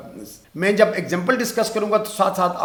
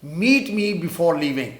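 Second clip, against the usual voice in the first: very slow, word by word; slow dictation; much slower than usual. Shown as a demonstration. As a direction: dictate slowly for the class. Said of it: "مجھ سے ملاقات کر کے جانا".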